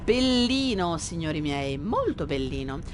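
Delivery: a warm, appreciative aside in Italian, "molto bellino" lingering; lapsing into Italian. Real, not acted. Admiring the scenery to his viewers, in Italian. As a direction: savour the view in Italian. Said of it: "I revert to Italian sometimes".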